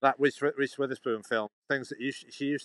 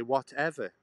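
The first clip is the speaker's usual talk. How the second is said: clipped British "Whatever" with a falling end; plain British English "Whatever"; 3 semitones higher, slower than usual. Shown as a demonstration. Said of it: "We say".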